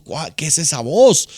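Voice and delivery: sobresalto levemente actuado, imitando; susto fingido. Acted. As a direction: imitate someone mildly startled. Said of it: "espantó y dijo". (susto fingido, apenas exagerado)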